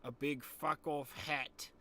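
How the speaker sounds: hammed-up Sass commentary. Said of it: "switching between my normal voice and the fucking Sass, mate".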